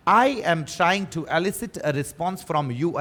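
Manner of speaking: very slow, deliberate English reading; drawn-out example sentence; model sentence. Shown as a demonstration. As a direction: space out each word for learners. Teacher models example sentence slowly.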